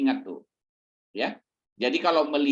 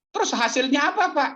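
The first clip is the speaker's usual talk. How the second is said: congregant's question; 12 semitones higher than usual. Acted.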